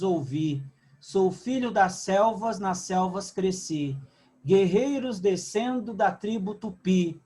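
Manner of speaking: slow, declaiming poem recital. Acted. Teacher recites the warrior's death song to the class, slow and declaiming. Então diz assim.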